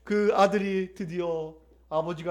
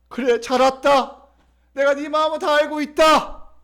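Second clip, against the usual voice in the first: raised, firm, welcoming voice; welcoming father; 3 semitones higher, 5 dB louder than usual. Acted. God welcomes the one who came, loudly reassuring.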